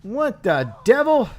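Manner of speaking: slow, drawn-out bewildered query; mild stunned wonder; baffled exclamation. Real, not acted. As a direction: let the words hang in puzzlement. Reacting to game sight.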